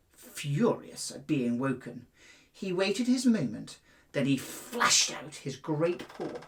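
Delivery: gentle storybook reading; storyteller voice for young boys; story narration. A narrator's reading. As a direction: read it like a bedtime fable to children. Reads fable to schoolboys.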